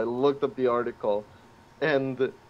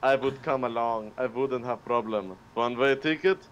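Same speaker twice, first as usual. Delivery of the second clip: put-on German accent; 2 semitones lower, 4 dB quieter than usual. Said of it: "I cannot do a German accent".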